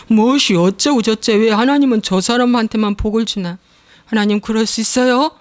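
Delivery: high, whining prayer of grievance; whiny complaint. Retold or imitated. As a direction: whine at God as if hard done by. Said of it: "이러지".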